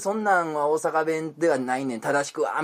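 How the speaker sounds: imitating a fussy dialect policeman; long drawn groan into a mock scolding; mock angry Osakan. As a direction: correct them indignantly in Osaka dialect. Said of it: "めちゃめちゃ怒る大阪人".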